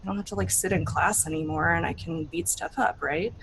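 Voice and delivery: grudging, half-hearted agreement; mildly sulky teenager; reluctant teen. Acted. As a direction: shrug it off like a bored teen. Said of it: "She's like".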